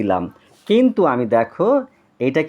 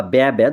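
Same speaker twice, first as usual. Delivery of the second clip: the second way to say the bleat, ব্যা ব্যা; sheep bleat; 3 semitones lower than usual. Retold or imitated. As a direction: bleat ব্যা ব্যা with the flatter vowel. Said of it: "দুটোই বলা যায়".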